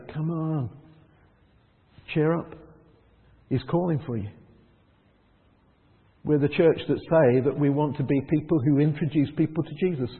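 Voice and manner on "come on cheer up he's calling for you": gentle encouragement. Retold or imitated. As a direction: coax him gently to his feet. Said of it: "ones that say".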